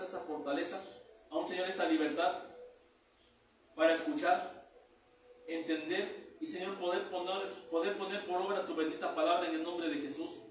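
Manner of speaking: murmured pastor's prayer, pleading and steady; fervent prayer. Acted. Pastor praying over his congregation, fervent plea.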